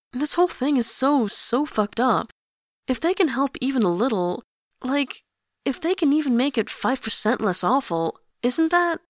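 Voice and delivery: high, insistent pressing; urgent plea. A narrator's reading. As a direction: push hard, voice rising. Grantaire urgent appeal.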